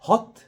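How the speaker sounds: "hot" high and short with a rounded o; British hot. Shown as a demonstration. Teacher repeating "hot" to show the short vowel. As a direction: clip "hot" short, lips lightly rounded. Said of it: "خدت بالك؟".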